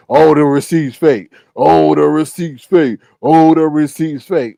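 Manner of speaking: loud, repeated scoffing denial; mock dismissive claim. Mocking the people who claim the receipt is fake. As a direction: mimic their excuse with a sneer. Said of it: "we told you, you see".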